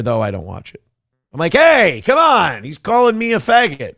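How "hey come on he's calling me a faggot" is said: mock protest. Streamer protesting an insult from a show he's watching, mock protest. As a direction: object as if hurt by name-calling.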